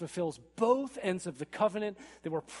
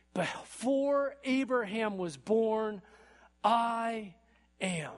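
solemn declaration; 4 semitones higher, 5 dB louder, much slower than usual. Retold or imitated. Quoting Jesus' solemn claim.

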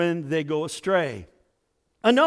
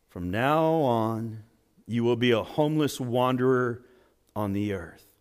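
God pronouncing a curse; 5 semitones lower than usual. Acted. The Lord banishing Cain, low and solemn. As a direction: hand down the sentence like a stern judge.

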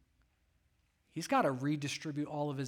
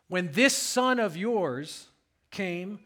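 slow, louder accusing son; bitter complaint; 2 semitones higher, 5 dB louder, slower than usual. Acted. Older son accusing his father, slow and loud. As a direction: spit out the grievance slowly.

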